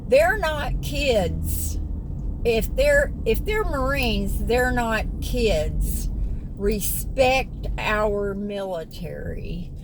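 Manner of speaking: slow, emphatic mock reprimand; scolding commenter. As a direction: mimic someone correcting you, word by word. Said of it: "Somebody made a comment to me".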